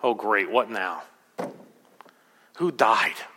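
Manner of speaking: mildly glum, low-pitched retort; despondent. Retold or imitated. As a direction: imitate a man sunk in despondency, understated. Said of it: "in his despondency".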